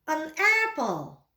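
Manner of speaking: An apple said slowly with a full stop; slow repeat. Shown as a demonstration. Teacher repeats An apple slowly for the class. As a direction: drag out An apple for learners. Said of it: "Mari ikuti saya".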